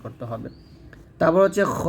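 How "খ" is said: খ said full and heavy; thick kha. Shown as a demonstration. Teacher introduces the letter, খ said thick. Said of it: "মোটা করতে হবে।".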